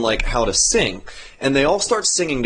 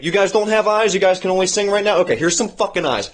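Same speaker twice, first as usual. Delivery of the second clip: exasperated god; 6 semitones higher than usual. Retold or imitated. Iluvatar voiced, laughing.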